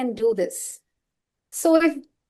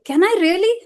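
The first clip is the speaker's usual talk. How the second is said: put-on excited child; 6 semitones higher, 4 dB louder, faster than usual. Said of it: "he was like".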